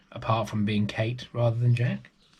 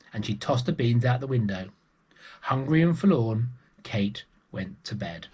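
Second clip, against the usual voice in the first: put-on lively read-aloud voice for children; storybook narration. A narrator's reading. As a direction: tell it like a bedtime story. Storyteller reading a picture book.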